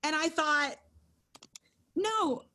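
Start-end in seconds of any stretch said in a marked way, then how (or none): 1.9-2.4 higher, laughing through the words; laughing protest. Retold or imitated. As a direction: protest while breaking into a laugh. Laughing at her own protest.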